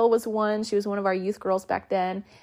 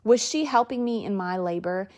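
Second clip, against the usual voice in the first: frightened. Retold or imitated. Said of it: "I was so, like, frightened".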